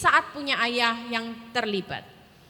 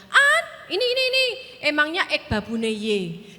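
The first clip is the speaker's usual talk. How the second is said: indignant mother. Retold or imitated. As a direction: grumble like a wife refusing to be a maid. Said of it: "kalau disuruh papi saya". (mami mengomel tersinggung dengan logat Jawa)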